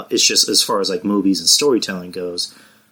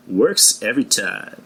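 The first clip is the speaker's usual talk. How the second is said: slow, smooth catchphrase, lightly voiced; Billy Dee Williams impression; slower than usual. Showing off his actor impression to the listeners. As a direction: drawl it like the suave actor. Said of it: "that's my Billy D Williams impression".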